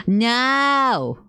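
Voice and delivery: sudden loud no; shout. Real, not acted. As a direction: yell it in alarm. Gross-out moment in game.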